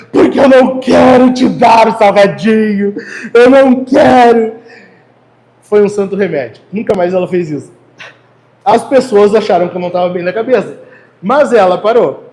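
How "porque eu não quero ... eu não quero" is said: loud put-on sobbing through the words. Retelling how she threw her own tantrum in front of her daughter: retelling loud fake crying. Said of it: "Eu comecei a falar alto, chorando".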